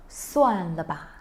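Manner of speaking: slow, mildly annoyed. Shown as a demonstration. Teacher shows giving up in annoyance, slow. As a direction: drag it out, fed up. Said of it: "As you can see from my intonation".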